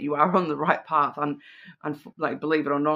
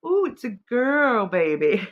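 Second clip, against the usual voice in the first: excited discovery; 8 semitones higher, 3 dB louder than usual. Pretend. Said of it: "You're like".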